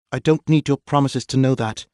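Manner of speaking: high, loud angry snap; snapping. Acted. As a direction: bite back at him. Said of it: "Maxine snapped at the captain".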